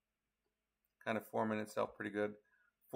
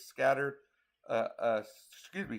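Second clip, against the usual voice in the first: yawning. Real, not acted. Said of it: "yawning a lot".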